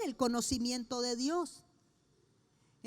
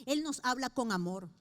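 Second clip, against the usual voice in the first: ordinary talk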